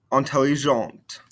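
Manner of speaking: "Intelligente" falling onto an audible T; sounded ending consonants. Shown as a demonstration. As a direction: release the T of "Intelligente". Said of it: "makes us pronounce those ending consonants".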